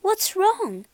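high-voiced, gentle concern; concerned question. A narrator's reading. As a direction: ask as a worried young heroine. Beauty sees the beast's tears.

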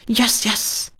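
a weary sighed yes. Acted. Tired old sow sighing to her guest. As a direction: breathe the words out like a tired sigh. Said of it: "sighed Aunt Petitos".

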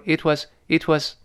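"it was" joined with a very light t; barely touch the t linking "it was"; "it was" as one smooth unit. Shown as a demonstration. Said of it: "非常轻的读音".

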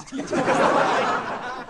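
airy high-pitched laugh; breathy laugh. Real, not acted. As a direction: burst out laughing at the joke. Laughs at own punchline.

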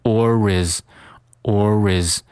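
"or is" joined as o-riz; "or is" as one word with a linking r; linked "or is". Shown as a demonstration. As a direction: carry the r of "or" onto "is". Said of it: "or和is连读成".

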